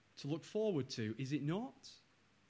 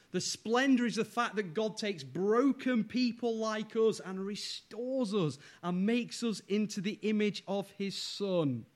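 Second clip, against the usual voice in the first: higher-pitched, driving sermon delivery; impassioned preaching; 5 semitones higher, 3 dB louder than usual. Real, not acted. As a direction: press each point home to the congregation. Preaches at full force.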